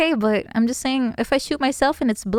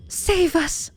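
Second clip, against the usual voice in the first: mock princess plea; 6 semitones higher than usual. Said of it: "is she British nowadays".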